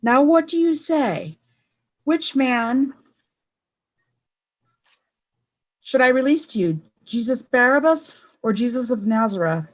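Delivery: high, loud call to the crowd; shouting. A narrator's reading. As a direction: shout the question across the square. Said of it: "Pilate shouted".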